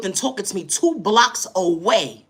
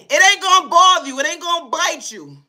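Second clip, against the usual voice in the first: owner reassuring; 6 semitones higher, 4 dB louder than usual. Retold or imitated. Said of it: "The owner is saying".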